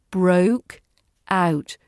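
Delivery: Broke out said slowly, diphthongs held; don't rush Broke out; unrushed. Shown as a demonstration. Teacher showing learners not to rush. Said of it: "Don't rush them".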